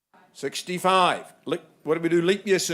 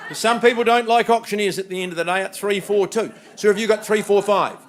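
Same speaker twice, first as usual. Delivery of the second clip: laughing; 3 semitones higher, 6 dB louder than usual. Real, not acted. Auctioneer laughing mid-call.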